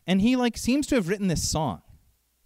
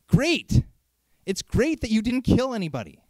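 sarcastic great; 3 semitones higher than usual. Real, not acted. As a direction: drop it like dry applause. Sarcastic reply to claim.

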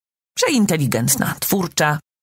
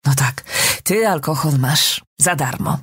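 usual speaking voice

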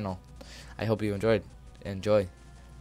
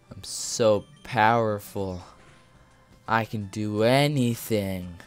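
mock boast; slower than usual. Mock boasting while playing game.

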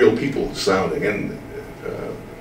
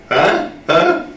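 eager huh; 10 semitones higher, 4 dB louder than usual. Real, not acted. Urging the boys.

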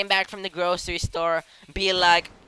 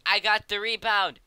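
higher-pitched sporty call, building; triumphant car voice; 5 semitones higher, slower than usual. Acted. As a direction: call it out, drawing out the repeat. Voices the car claiming a rebound.

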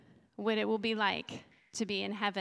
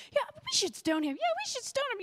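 mock angry crowd; 14 semitones higher, faster than usual. Angry crowd voiced in scene.

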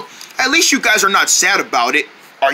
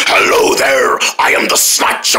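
creepy villain whisper; 10 semitones lower than usual. Acted. Villain introduces himself.

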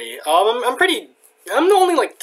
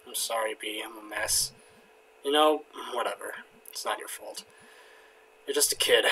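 much softer, subdued apology; whisper-close regretful line; understated sorrowful sorry; voiced quiet remorse; 7 semitones lower, 12 dB quieter than usual.

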